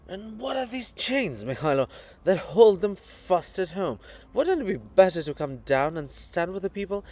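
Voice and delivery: a fervent public tirade; ranting. Acted. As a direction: preach it like a fiery orator railing at the crowd. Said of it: "The Kobza is evidently ranting".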